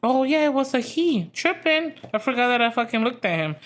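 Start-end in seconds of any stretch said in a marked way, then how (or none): 0.0-1.9 mocking the other driver. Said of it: "He was just like".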